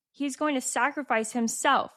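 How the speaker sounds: high, acted dramatic announcement; dramatic reveal. Reading Harry telling Hermione about the sacrifice, dramatic. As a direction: read it out as melodrama. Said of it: "they're so dramatic".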